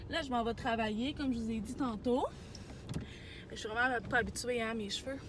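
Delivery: talking around a candy in the mouth; words rolled around a sweet on the tongue. Real, not acted. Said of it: "J'ai un bonbon dans la bouche". (avec un bonbon dans la bouche)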